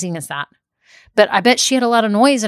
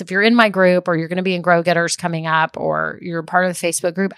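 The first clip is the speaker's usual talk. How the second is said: ordinary talk, nothing marked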